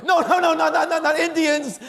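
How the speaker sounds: high, loud, stammering protest; hammed-up panicked repetition; acted frantic correction. Boat driver correcting the old man, high frantic stammer.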